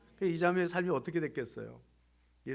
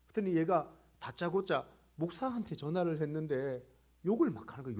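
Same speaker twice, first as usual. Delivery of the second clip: normal talking voice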